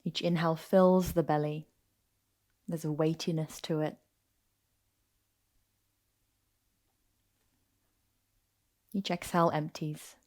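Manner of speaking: calm, unhurried yoga nidra guidance; guided meditation. Acted. Teacher settling listeners into yoga nidra on their backs, guided meditation. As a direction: ease them into rest, with long pauses between phrases.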